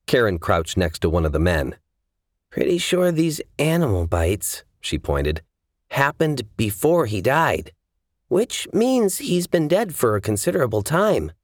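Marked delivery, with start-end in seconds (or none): 2.5-4.7 high, assured investigator voice; woman examining bodies. Acted. 5.9-11.3 high, assured investigator voice; woman examining bodies. Acted.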